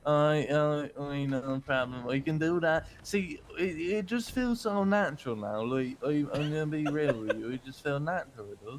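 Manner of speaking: light Irish lilt, relaxed; Irish accent. Acted. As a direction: slip back into an easy Irish accent. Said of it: "Back to Irish".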